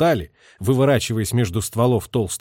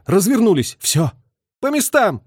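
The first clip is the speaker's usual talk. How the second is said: higher, louder order; urgent command; 8 semitones higher, 4 dB louder than usual. A narrator's reading. Lieutenant ordering crew as planes come, urgent. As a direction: order them to posts urgently.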